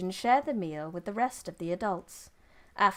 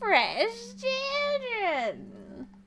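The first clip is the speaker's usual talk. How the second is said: put-on grandma voice, very high and swooping; 14 semitones higher than usual. Narrating a story scene, repeating a character's line in an old granny voice. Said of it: "Do you like my granny voice?".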